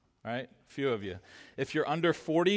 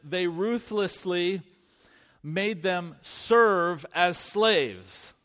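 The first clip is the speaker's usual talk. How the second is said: measured Bible reading, slow in places; a gently weighted scripture read. Acted. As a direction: read the verse deliberately to the congregation. Rereading verse with literal word.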